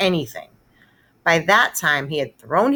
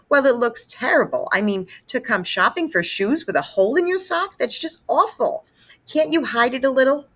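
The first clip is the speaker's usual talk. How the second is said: higher, fussing mother voice; fretting mother; 8 semitones higher than usual. Acted. Mother fussing to Peter over his sock, higher and fretful. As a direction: fret over the embarrassing sock.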